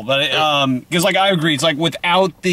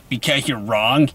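nerd voice; 3 semitones lower, slower than usual. Pretend. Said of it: "stereotypical, like, nerd voices".

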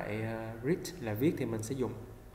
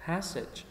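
Passage with stress on PAS; stress first syllable; 5 semitones higher than usual. Shown as a demonstration. Teacher drills first-syllable stress in Passage. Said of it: "âm một".

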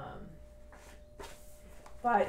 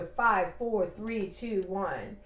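firm, even countdown with a fall on each number; counting down; much slower than usual. Shown as a demonstration. Demonstrating the wake-up rule, counting down firmly. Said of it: "is it the five minute rule".

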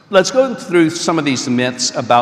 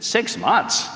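surprised; 10 semitones higher than usual. Retold or imitated. Narrator stunned by pilgrim's answer.

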